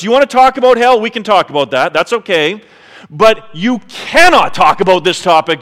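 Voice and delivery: lightly voiced Jesus challenging the listener; voicing Jesus. Pastor voicing Jesus to the congregation, earnest and firm. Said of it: "Jesus is gonna say to us".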